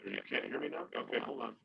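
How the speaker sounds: garbled, underwater-sounding audio; muffled like speaking underwater. Real, not acted. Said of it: "It sounds like you're underwater".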